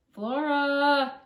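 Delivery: loud high call up the stairs; mother shouting. A narrator's reading. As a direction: yell the name up to the bedroom. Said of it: "her mother shouted".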